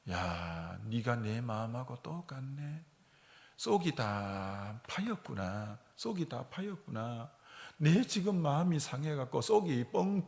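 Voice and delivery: pastor confides his hurt to a fallen leaf, softly; quiet musing to leaf. Retold or imitated. Pastor talks to leaf alone.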